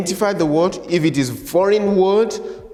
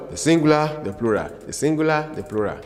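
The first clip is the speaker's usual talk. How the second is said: fast listing; faster than usual. Shown as a demonstration. Teacher rattles off drill pattern, fast and fading. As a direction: rush through the list fading away. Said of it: "we pronounce the word".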